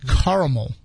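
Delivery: "caramel" as CAR-uh-mul, middle A barely there; skimmed-over A. Retold or imitated. Host mimicking how others say it, "caramel" as CAR-uh-mul. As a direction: slide over the second A of "caramel". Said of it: "saying it so fast over that A".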